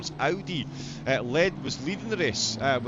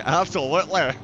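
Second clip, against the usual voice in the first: fake Scottish accent; 3 semitones higher, 7 dB louder than usual. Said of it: "my fake Scottish accent".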